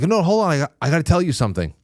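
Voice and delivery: high-pitched imitation of a protesting child; stalling kid. Child fighting with the doctors over the gas mask, high stalling kid voice. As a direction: play a kid stalling, voice jumping up high, speeding up. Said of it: "You know, kids do".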